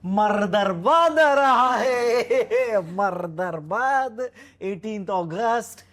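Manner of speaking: put-on slow, drawn-out Russian accent promo; hammed-up Russian accent, very slow. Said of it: "get out your Russian accent".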